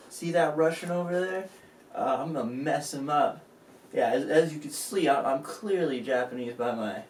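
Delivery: lightly voiced swaggering fighter; a boastful fighter sizing up his rival; cocky Japanese fighter. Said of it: "here's how that went".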